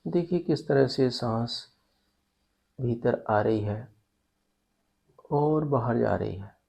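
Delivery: calm yoga nidra guidance with long pauses; guided meditation. Real, not acted. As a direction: guide them gently into rest, phrase by phrase.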